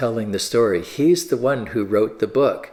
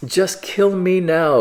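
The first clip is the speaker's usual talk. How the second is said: sulky demand; 7 semitones higher, 3 dB louder than usual. Acted. Preacher voicing sulky Jonah.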